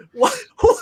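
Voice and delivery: high, laughing disbelief that breaks into a shout; mock outrage at being asked for an autograph; incredulous. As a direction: act floored that anyone would ask. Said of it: "I'm like".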